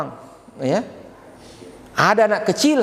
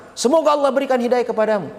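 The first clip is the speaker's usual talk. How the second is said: higher, heated blessing used as a curse; mock angry curse; 6 semitones higher, faster than usual. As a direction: spit the blessing out. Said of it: "Weh, marah itu". (pengendara marah mendoakan dengan kesal)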